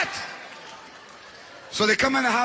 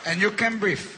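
sarcastic aunt; 3 semitones higher, 4 dB quieter, slower than usual. Retold or imitated. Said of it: "now she's like".

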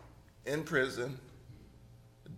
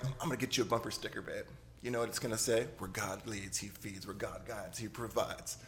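mocking bumper sticker quote; 4 semitones lower than usual. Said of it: "she would always make fun of it".

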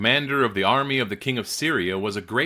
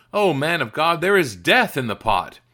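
raised, louder cry of alarm; 6 semitones higher, 6 dB louder than usual. A narrator's reading. Men eating stew cry out to the man of God, alarmed. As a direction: call out a warning, higher and louder. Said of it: "they cried out".

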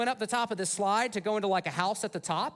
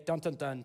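low, soft "dun, dun, dun"; mock dramatic music sting, dropped in quietly; suspense sting; 7 semitones lower, 4 dB quieter than usual. Preacher marking rising tension in the story, low mock suspense sting. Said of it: "tension, you know, thickens".

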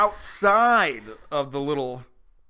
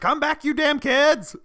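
put-on angry old dad; 9 semitones higher, slower than usual. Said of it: "probably looking like that".

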